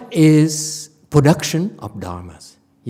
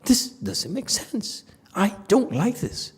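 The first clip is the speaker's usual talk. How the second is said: mocking inner voice; 2 semitones higher, 7 dB quieter than usual. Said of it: "It says".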